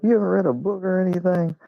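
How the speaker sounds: high mock-incredulous woman; incredulous friend. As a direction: play the shocked friend asking. Friend's incredulous question voiced.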